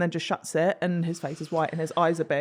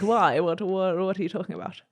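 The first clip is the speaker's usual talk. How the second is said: put-on posh English hunter. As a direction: lightly imitate a posh country gent. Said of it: "Really posh, like a hunter".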